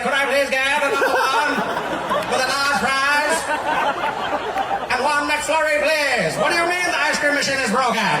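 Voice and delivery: high, loud presidential caricature; John F. Kennedy. Acted. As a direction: order fast food in an exaggerated presidential voice. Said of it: "he didn't speak normally".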